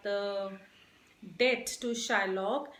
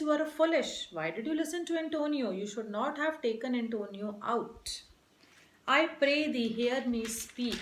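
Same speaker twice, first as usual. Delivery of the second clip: scolding. Acted. Shylock scolds the jailer.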